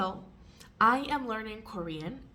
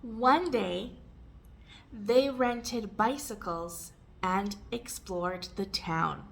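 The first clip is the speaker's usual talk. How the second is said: careful model reading; measured, so learners can repeat; slower, with pauses. Shown as a demonstration. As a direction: leave a gap after the opening. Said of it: "read it more slowly and take pauses".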